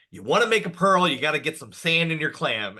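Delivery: punchy, keyed-up quote; Eleanor fired up. Retold or imitated. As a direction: imitate a fired-up pep talk. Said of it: "Eleanor's feeling real fired up".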